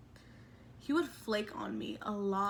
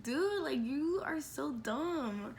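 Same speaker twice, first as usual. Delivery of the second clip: mild annoyed scolding, slowing down; a touch of anger in the retelling; retold exasperation; 4 semitones higher, much slower than usual. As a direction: draw out the put-down, fed up. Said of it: "I was so mad at him".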